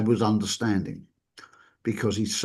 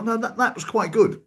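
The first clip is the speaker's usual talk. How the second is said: higher, falsely modest; smug modesty; 11 semitones higher than usual. Retold or imitated. The therapist judging himself, smug false modesty. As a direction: play it down while preening. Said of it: "You know".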